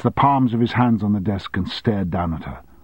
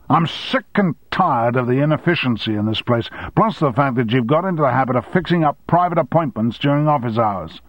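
raised, higher irritated tirade; angry boss; 5 semitones higher, 3 dB louder than usual. Acted. Boss venting at his secretary, angry rant. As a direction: let the grievances pile up. Armstrong rants at Sally.

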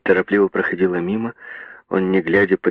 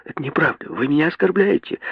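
put-on higher, indignant girl's cry; 9 semitones higher than usual. A narrator's reading. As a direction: cry out, stung and offended. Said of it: "закричала девушка".

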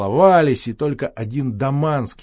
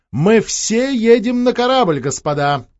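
much higher and louder, slow command; 9 semitones higher, 7 dB louder than usual. Acted. Princess commanding all the gentlemen, loud and slow. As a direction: order the gentlemen to come along. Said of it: "почти приказала".

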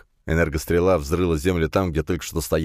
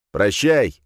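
shout; 3 semitones higher, 4 dB louder than usual. Acted. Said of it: "крикнул я".

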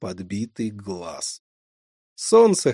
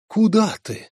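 astonished; 9 semitones higher, 4 dB louder than usual. Acted. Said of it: "изумился Вадим".

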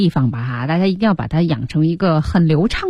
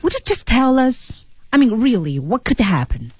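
higher, impatient pressing that eases at the end; impatient and curious; 4 semitones higher than usual. Acted. Teacher replaying the friend's demand to Marty, impatient. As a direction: push for an answer, a bit fed up. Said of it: "不耐烦".

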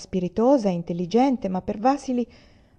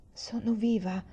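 small, softer voice; softly; 6 dB quieter than usual. A narrator's reading. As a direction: say it gently, barely projected. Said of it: "dissi io piano".

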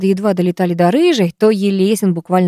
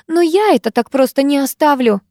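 higher-pitched, insistent vow; unrelenting; 6 semitones higher than usual. A narrator's reading. Викуля unwilling to drop the matter, insistent. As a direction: refuse to let it go. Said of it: "не унималась Викуля".

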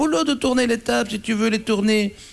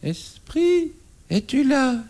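seance medium; 2 semitones higher, much slower than usual. Pretend. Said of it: "répète avec moi".

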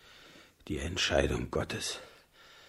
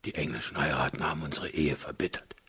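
fast, tearful whisper; 3 semitones lower, much faster than usual. Acted. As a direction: break down while confessing. König weint vor der Königin. (weinend geflüstert)

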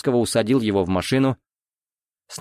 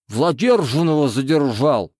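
talking with a mouthful of pie; words mashed round a bite; mouth full; 3 semitones higher than usual. Acted. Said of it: "С набитым ртом проговорил капитан".

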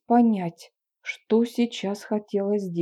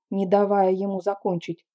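usual speaking voice

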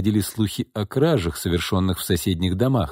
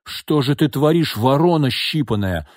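exclaiming; 6 semitones higher, 3 dB louder than usual. A narrator's reading. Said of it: "воскликнула она".

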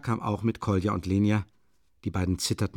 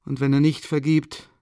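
high, frail voice of a dying mother; dying woman voice; 5 semitones higher than usual. A narrator's reading. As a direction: plead feebly with the children. Dying mother speaks in story.

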